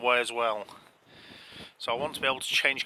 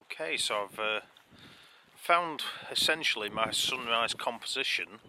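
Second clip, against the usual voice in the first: windy clifftop; 6 dB quieter than usual. Real, not acted. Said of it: "can't hear me over the wind noise".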